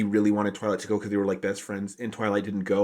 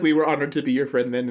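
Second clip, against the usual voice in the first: laughing; 4 semitones higher than usual. Real, not acted. Laughing while quoting Minuet.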